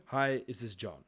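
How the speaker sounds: calm, friendly greeting with a falling close; calm, respectful. Shown as a demonstration. Sales coach shows the good phone opener, calm and respectful. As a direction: greet him gently, no pressure. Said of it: "They feel like it's already more calm".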